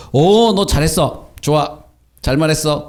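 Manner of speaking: play-acted "well done" with a long opening Oh; mock approval. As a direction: pretend to be delighted and praise it. Imagined Jesus praising the demon.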